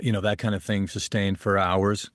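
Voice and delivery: usual speaking voice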